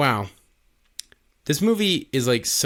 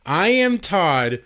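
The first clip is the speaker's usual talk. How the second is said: drawn-out mock yell, pitched higher; slow, higher parody of screaming; 4 semitones higher, slower than usual. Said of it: "just screaming".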